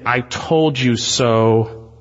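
drawn-out taunt. Retold or imitated. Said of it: "is saying".

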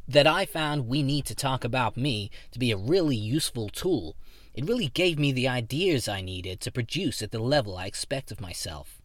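earnest self-help fan; eager fan voice. Acted. Henry the fan speaking.

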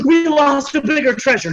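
hammed-up grief with a gasp; mock gasping mourning. Fans mourning a singer, hammed-up gasping grief. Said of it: "people said".

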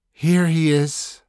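loud whisper. Acted. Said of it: "said the guide in that strange, loud whisper".

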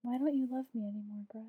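whiny pleading, hammed-up hurt; mock heartbroken whine. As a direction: plead like a jilted lover, half joking. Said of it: "My broke little heart was hurting".

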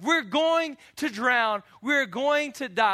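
slow, loud frantic cry; panicked disciples. Retold or imitated. Disciples crying out in panic as boat sinks. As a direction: cry out like men about to drown.

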